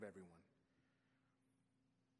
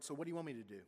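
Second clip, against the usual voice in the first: nasty; 4 semitones higher than usual. Retold or imitated. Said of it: "Why, why do you have to be so nasty?".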